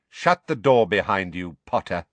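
cold, menacing order; a chilly teacher's command. Acted. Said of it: "Snape's cold voice".

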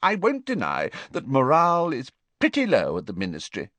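high, urgent minister pleading his case; anxious wizard official, pitched high; Fudge's voice. Acted. Fudge tells the Prime Minister they're at war, high and urgent.

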